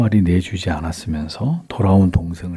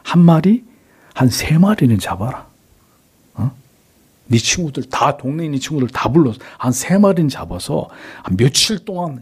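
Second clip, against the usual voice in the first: generous urging, higher-pitched then easing down; gladly generous; 4 semitones higher than usual. Acted. Father letting son feast with friends, gladly generous. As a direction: grant it readily and heartily, pitch raised. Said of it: "절대로 흔쾌히 허락했어요".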